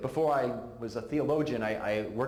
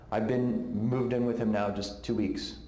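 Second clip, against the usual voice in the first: weeping; 3 semitones lower than usual. Retold or imitated. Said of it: "as she's weeping".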